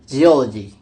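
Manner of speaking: "geology" set apart, loud stress on OL; stress before suffix. Shown as a demonstration. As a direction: punch the second syllable of "geology": ge-OL-ogy. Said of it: "primary stress shifts to the syllable immediately preceding".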